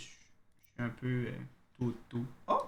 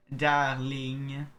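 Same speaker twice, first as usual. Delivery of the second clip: Darling again with a French accent, louder; second French Darling; 5 dB louder than usual. Shown as a demonstration. Player repeating the word from the letter, French-accented. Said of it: "quand les gens disent le mot darling".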